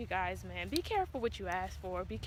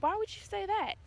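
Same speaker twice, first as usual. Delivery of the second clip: high, alarmed question; startled; 11 semitones higher than usual. Retold or imitated. Mother startled by the tech's news. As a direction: ask it in sudden worry.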